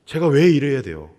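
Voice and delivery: complaining to God. Retold or imitated. Moses grumbling to God, in a pleading, rising complaint. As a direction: voice Moses' exasperated protest, rising. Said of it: "하나님께 원망하는 거죠".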